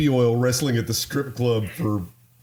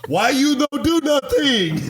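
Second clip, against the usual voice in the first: put-on Asian accent; 14 semitones higher, 4 dB louder, slower than usual. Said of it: "That was my Asian accent".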